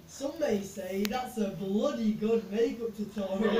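dry joke into laughter; laughing. Real, not acted. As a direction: crack up at own joke.

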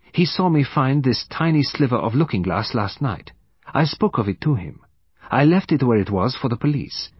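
courteous, methodical foreign detective, deliberate and precise; Poirot. Acted. Detective calling a witness to his evidence, deliberate and courteous.

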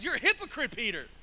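half-yelled accusation; mock yell. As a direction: call him out sharply, short of shouting. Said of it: "I wanna yell at him".

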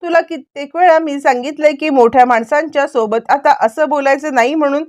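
a mother scolding her daughter, pitch climbing; mild acted scolding that rises; mother telling off her child, lightly voiced. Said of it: "ओरडायला लागते".

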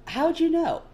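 high, loud demand. Acted. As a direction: snap the question out. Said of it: "he demands".

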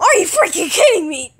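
high, loud, half-laughing protest; laughing exasperated yell; exasperated shout. Real, not acted. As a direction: burst out in disbelief at the joke. Outburst at partner's joke voice.

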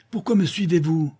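terrible voice. A narrator's reading. Sainclair turning on the pursuing rider, furious. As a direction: snap the question at the pest. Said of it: "répondit Sainclair d'une voix terrible".

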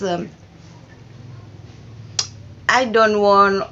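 ordinary talk

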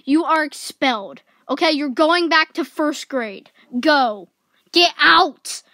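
loud stern scolding; angry principal. Acted. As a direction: throw the kid out. Principal expels a student.

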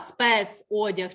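«Спецодяг» slowly, with a distinct Е; clear Е sound. Shown as a demonstration. Teacher shows class the check word, slow clear Е in «Спецодяг». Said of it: "Чітко чути звук Е".

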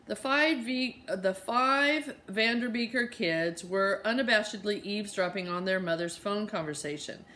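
lively read-aloud narration, brisk and clear; a teacher reading a novel aloud to kids; story reading. Acted. Reads chapter aloud to class.

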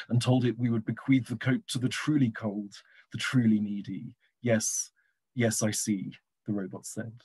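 poem read with measured phrasing, easing down at the end. Acted. Poet resumes reading the robot poem to listeners, poem reading. Reads their poem aloud.

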